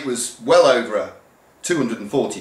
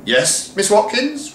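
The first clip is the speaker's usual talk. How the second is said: meek self-reply; 11 semitones higher than usual. Acted. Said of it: "replied Miss Watkins".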